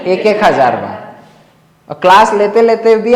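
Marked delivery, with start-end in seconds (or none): 0.1-1.0 एक एक said low and firm; teacher repeating the mock threat lower; stress on एक. Shown as a demonstration. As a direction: drop low and spell out एक एक हजार बार. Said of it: "कितने हजार बार?".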